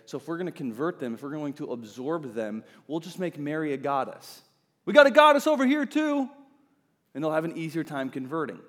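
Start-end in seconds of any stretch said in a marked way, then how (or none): 4.8-6.3 high, loud mock church official; church leaders voiced. Church leaders luring converts, mock official voice. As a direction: play the scheming church leader, bright and loud.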